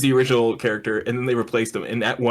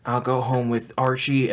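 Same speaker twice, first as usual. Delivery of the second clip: put-on old Southern. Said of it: "old and Southern all of a sudden".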